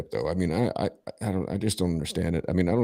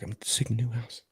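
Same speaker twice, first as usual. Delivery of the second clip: imitated hushed phone voice, higher and softer; retold whisper; 5 semitones higher, 7 dB quieter than usual. Trapped friend telling caller where she is, imitated whisper. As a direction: mimic a secret whisper, still voiced. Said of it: "and she's whispering".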